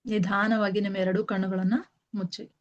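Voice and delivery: slightly softened meditation guide, long pauses between instructions; guided meditation. Real, not acted. Teacher guiding listeners to sit and close their eyes, calm meditation voice. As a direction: settle them in gently, one instruction at a time.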